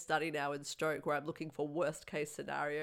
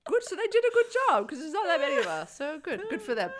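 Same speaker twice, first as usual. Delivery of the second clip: mock praise; 10 semitones higher, 6 dB louder, faster than usual. Real, not acted. Sarcastic reply about accents.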